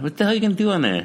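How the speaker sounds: high, fast disbelief; incredulous. Real, not acted. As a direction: scoff at the idea. Incredulous reaction to island.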